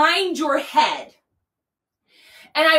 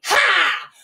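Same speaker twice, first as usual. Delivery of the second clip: breathy ha; 6 semitones higher than usual. Shown as a demonstration. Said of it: "Can you make that noise?".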